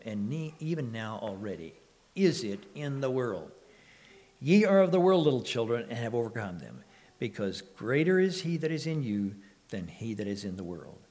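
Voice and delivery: measured, solemn reading of the verse; scripture reading. Acted. Preacher reading verses to the congregation, solemn. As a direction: read it like holy writ, with weight.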